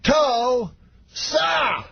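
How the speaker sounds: exaggerated impression, huge gap inside TULSA; Bill Cosby. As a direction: split "Tulsa" into two long cried syllables. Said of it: "every time slower".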